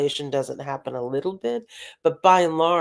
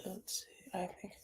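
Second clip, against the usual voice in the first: unvoiced whisper, checking if still on; whisper to self; 4 semitones higher, 21 dB quieter than usual. Real, not acted. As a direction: breathe it under your breath to yourself. Lost connection, whispering to self.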